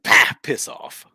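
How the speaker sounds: British Batman. Acted. Guest asks if British Batman would work, British accent. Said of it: "if Batman had a British accent".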